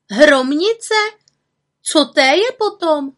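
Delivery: high, loud, cross retort; irritated. A narrator's reading. Little witch retorts to the nagging raven, irritated. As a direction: throw the questions back high and loud.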